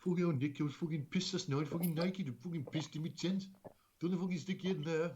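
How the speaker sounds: lightly put-on mate's accent; mild mock impression of a sweary friend; Stewie. Playing the friend recounting his drunken night, lightly mocked accent. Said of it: "Your best impression is our good friend Stewie".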